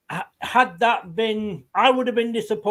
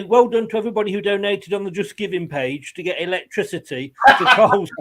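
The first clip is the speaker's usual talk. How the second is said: laughing; 3 dB louder, faster than usual. Real, not acted. Joking fake charity appeal.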